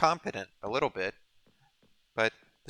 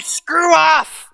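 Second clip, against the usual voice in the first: shouting; 13 dB louder than usual. Retold or imitated. Quoting an angry screw-you attitude.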